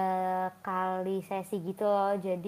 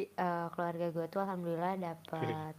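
soft soothing voice; 3 semitones lower, 10 dB quieter than usual. Real, not acted. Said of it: "Aduh, suaranya adem banget".

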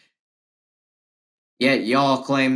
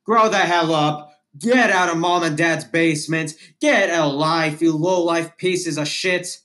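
angry rant; 5 semitones higher than usual. Real, not acted. Ranting at liberals who call his hat racist, angry and raised. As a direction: lash out at them, voice climbing higher.

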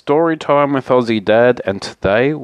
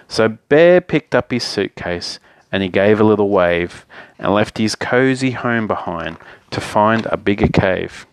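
picture-book narration with lively phrasing; story narration. A narrator's reading. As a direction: read a bedtime story to children. Reads picture book aloud.

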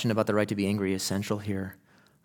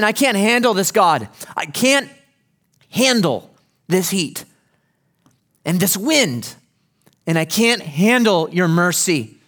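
high, loud fussing complaint; whining prophet; 6 semitones higher, 5 dB louder, slower than usual. Retold or imitated. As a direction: whine it like a spoiled child at God. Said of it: "Think about this fussing, whining prophet".

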